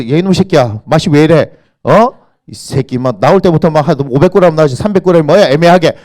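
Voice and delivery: loud, hammed-up scolding; mock cursing. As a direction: play at telling someone off rudely. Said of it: "저에 대해서 욕할 수 있습니까?".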